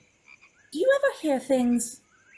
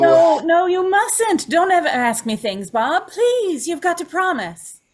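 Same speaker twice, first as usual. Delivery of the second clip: louder, frightened no, no, begging him; panicked insistence; alarmed pleading; 4 semitones higher, 6 dB louder than usual. Acted. Joan, frightened, begs Bob never to ask her things.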